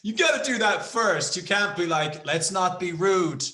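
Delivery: hammed-up indignant rant; mock rant. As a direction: insist on it like you're scolding. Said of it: "But I'm like".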